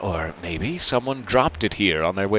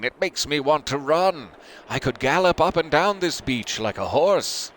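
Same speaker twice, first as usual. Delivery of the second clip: lightly raised, high, cheerful calling; mild yell; 6 semitones higher than usual. Acted. Louise calling from the water about galloping, mild yell. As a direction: call out, not fully shouting. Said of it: "Louise yelling".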